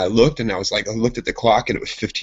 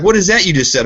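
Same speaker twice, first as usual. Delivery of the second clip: high, loud mock curiosity; impressed girls; 9 semitones higher, 6 dB louder than usual. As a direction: imitate fascinated girls asking. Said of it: "They're like".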